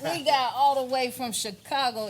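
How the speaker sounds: booming radio announcer intro; radio host voice. Shown as a demonstration. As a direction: hype up the crowd like a DJ. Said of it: "Let me get in my radio host voice".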